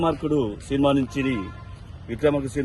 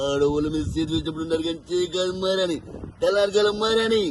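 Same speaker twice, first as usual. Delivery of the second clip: lightly voiced heroic oath; Prabhas voice; 2 semitones higher than usual. Mimic on stage lightly imitating the Baahubali hero. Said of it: "Prabhas గారి voice".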